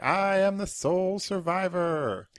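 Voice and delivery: slow, high, booming trailer voice; dramatic announcer. Retold or imitated. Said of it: "it was like".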